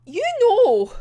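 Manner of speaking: high, sing-out showman voice; Nikolai. Retold or imitated. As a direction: play it high and theatrical. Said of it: "Nikolai's just like".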